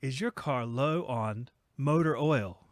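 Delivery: slow, mock automated voice; stilted customer-service bot, drawn out slowly; automated chat bot. Chat bot questioning a customer about the car, mock automated voice.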